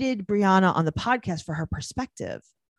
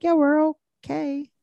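mock guarded answer; 8 semitones higher than usual. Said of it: "And she's like".

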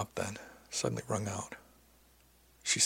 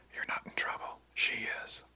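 hushed, softer whisper; 2 semitones higher, 7 dB quieter than usual. A narrator's reading. Crewmate reassuring narrator in private, whispered. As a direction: whisper it as a confidential aside. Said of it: "she whispered".

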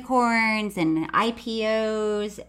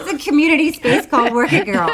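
laughing mock; 3 semitones higher, 6 dB louder, faster than usual. Real, not acted. Mocking, laughing, fast.

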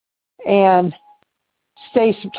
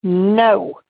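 ghostly voice. Retold or imitated. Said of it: "I heard this word say".

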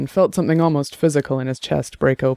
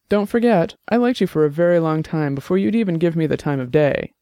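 a lightly higher woman's voice, eager to explain; Annabelle's voice; 4 semitones higher than usual. Acted. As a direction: voice Annabelle a little higher, earnest.

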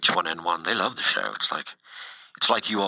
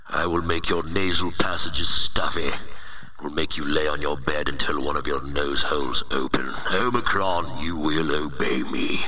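booming demon lord. Acted. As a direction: play a self-important virus overlord. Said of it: "It's not my real voice".

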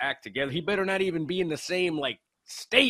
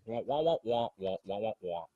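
Peanuts adult voice, lower, fading; muffled wah wah talk; 6 semitones lower, 7 dB quieter than usual. Retold or imitated. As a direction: wah wah like Charlie Brown's teacher. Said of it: "He's the Peanuts' parents".

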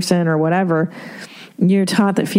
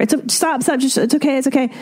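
hushing parent; 7 semitones higher, faster than usual. Retold or imitated. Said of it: "You wanna comfort".

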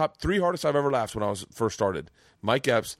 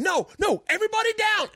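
robbery shout. Retold or imitated. Mike Epps' kid turns robber at the door, mock yell. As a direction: bark the order like a robber. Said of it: "he starts going".

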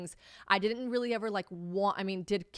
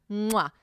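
loud exaggerated kiss sound; blown kiss; 6 dB louder than usual. Real, not acted. Signing off to the listeners, affectionate kiss. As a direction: smack a big kiss to sign off.

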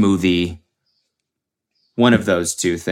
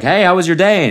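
higher-pitched mock partner's greeting; put-on homey cheeriness, higher voice; significant other; 8 semitones higher, 3 dB louder than usual. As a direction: play the partner asking after the day, pitched up. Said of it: "their significant other's like".

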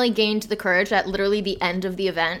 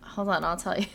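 whisper; 7 dB quieter than usual. Real, not acted. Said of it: "unvoiced whisper".

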